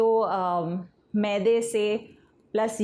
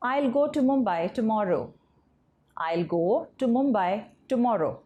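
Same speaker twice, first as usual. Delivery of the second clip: slow dictation; much slower than usual. Shown as a demonstration. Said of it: "teacher reads the example sentence slowly".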